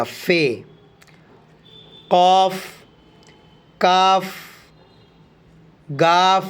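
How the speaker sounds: slow, clear recital of each letter name; letter names recited. Shown as a demonstration. Teacher reciting letter names slowly for the class. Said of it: "تو چلیے پڑھتے ہیں".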